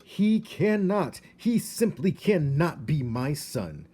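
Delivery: high, loud, slow wail of despair; a father mouse crying out in despair. A narrator's reading. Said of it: "shook his head from side to side in despair".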